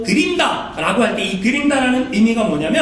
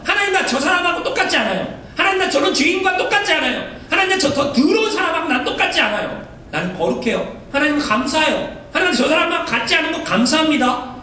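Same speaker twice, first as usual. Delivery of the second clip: higher, smug voice of a Pharisee looking down; mock self-righteous prayer; 5 semitones higher than usual. 바리새인을 흉내 내며 거만하게 기도하는 목소리. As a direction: pray proudly as if better than the sinner beside you. Congregation imagines a Pharisee praying against them.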